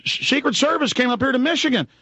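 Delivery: high-pitched imitation of a panicked guy; mock freaking out. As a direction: play someone freaking out, voice pushed way up. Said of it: "emailing me freaking out going".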